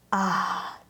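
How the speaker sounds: low, soft "ah" of bliss; savoring sigh in place of words; blissful sigh. Real, not acted. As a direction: sigh softly with contentment. Wordless bliss as her one-word answer.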